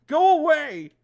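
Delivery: shouted go away. Acted. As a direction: yell it to send someone off. Reading Sayori's sobbing reply.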